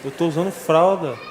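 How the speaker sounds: repetir "fralda" mais alto e aflito; desabafo mais forte. Retold or imitated. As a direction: insistir com mais força. (para o irmão, repetição indignada e mais alta)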